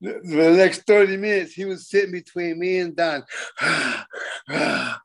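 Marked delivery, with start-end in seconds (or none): 3.3-4.4 heavy angry exhale, acted; mimed seething breath; imitated steaming huff. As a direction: huff like a big man silently fuming. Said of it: "he was steaming".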